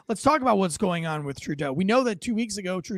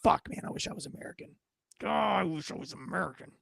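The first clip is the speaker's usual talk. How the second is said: soft, half-voiced longing; mock wistful murmur; wistful Canadian; 6 dB quieter than usual. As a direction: sigh it like a secret wish. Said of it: "Canadians that are like".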